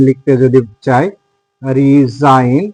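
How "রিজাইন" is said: রিজাইন drawn out very slowly, the g never sounded; silent g demo. Shown as a demonstration. Teacher showing students the silent g, drawn out slowly. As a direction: stretch রিজাইন slowly as ri-zain with no g at all. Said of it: "জি এর পরে যদি N থাকে তাহলে কিন্তু জি এর উচ্চারণ হবে না".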